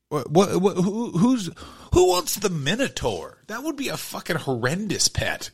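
rising disbelief; who'd want that, rising disbelief; incredulous. Real, not acted. Incredulous building outburst.

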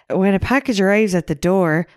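upbeat and perky; bubbly. Retold or imitated. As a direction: read it brightly and cheerfully. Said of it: "You're doing it way too bubbly".

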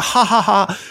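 deliberately hollow ha ha ha; fake laugh. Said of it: "I'll be like".

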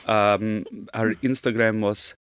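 lightly done mock Dracula-style accent; stiff, halting po-faced apology in a put-on accent; Bela Lugosi. Retelling the designers' apology, mock Lugosi accent. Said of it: "the only accent I can do is Bela Lugosi".

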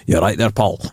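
rough Scottish greeting, pitched low; low, rugged Scottish; rugged Scottish accent. Acted. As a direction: put on a rugged Scots accent. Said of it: "depends what Scottish accent we're talking about".

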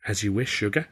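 lightly voiced lazy Southern drawl; a hint of a languid Southern purr. Visitor teasing Arthur in a light Southern drawl. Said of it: "my visitor drawled".

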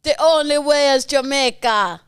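attempted Jamaican accent. Shown as a demonstration. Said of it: "Trying to do Jamaican".

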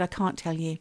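imitating a secretive receptionist, softly; conspiratorial. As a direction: hold it back, a little hushed. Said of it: "the way she said it was really conspiratorial".

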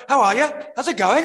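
high, loud mock Liverpudlian greeting; Liverpudlian accent. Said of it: "she had that Liverpudlian accent".

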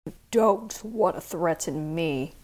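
low, quiet and tight through the teeth; through clenched teeth. Acted. Inspector warns the chief quietly through clenched teeth. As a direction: menace kept under the breath. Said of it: "said through clenched teeth".

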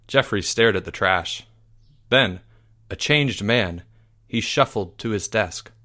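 mock-epic audiobook ending; grave storyteller winding down; dramatic story narration. A narrator's reading.

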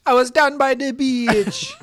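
high, loud put-on Jamaican accent; mock Jamaican accent. Long-lost cousin recalls the beach, mock Jamaican accent.

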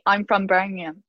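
low-pitched mock Birmingham accent; mimicked Birmingham accent. Telling her friend what everyone says, lightly mimicked Birmingham accent. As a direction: imitate people attempting a Birmingham accent. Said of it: "tries to do a Birmingham accent".

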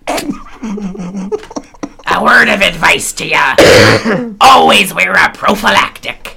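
a hint of the movie leprechaun giving advice. Quoting Leprechaun in Space, lightly voiced leprechaun. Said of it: "I sound like the little leprechaun".

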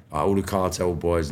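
ordinary delivery

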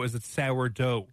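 "sourdough" slowly, with a sour vowel like sow-er; "Is it sourdough", sow-er-doh said slowly. Shown as a demonstration. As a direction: draw out "sourdough" with a full sour. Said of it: "Like a normal human being".

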